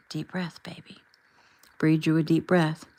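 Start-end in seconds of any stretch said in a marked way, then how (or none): 0.1-1.0 soft whisper in her ear. A narrator's reading. Ricky whispering to his wife to calm her. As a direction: hush it close, calming her. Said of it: "Ricky whispered in her ear".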